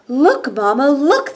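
high, eager little voices calling out; excited ducklings' cry. Acted. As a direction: call out to mama like excited ducklings. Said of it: "they cried".

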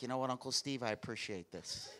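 a hint of a soft, hushed mob boss; mafia gratitude. Nephew thanks uncle for the gift, lightly voiced quiet mob boss. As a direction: murmur thanks like a godfather. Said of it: "he's like a little gangster".

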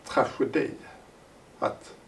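measured, emphatic reading of a written thesis; formal reading aloud. Acted. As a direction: read it out deliberately, phrase by phrase. Reads his written introduction. (högtidlig högläsning)

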